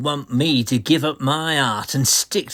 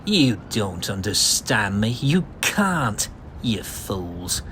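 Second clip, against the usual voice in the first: raving outburst. Acted. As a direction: rant that swells to a shout of grandeur. Joel dragged out raving.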